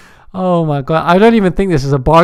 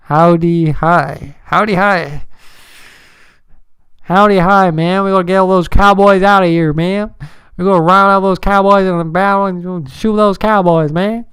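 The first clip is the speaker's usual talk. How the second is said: put-on Texas accent. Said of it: "Do a Texas accent".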